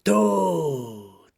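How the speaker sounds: loud, drawn-out wail, pitch falling; dramatic poem recital. Acted. Sad friend Melita's instant poem, hammed-up wail. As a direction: wail it like a doom-laden poem. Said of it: "hat sofort ein Gedicht drüber geschrieben".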